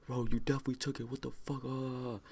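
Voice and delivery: high-pitched, put-on irate voice; mock exasperated accusation. Grandpa accuses him of taking the pills, mock exasperated.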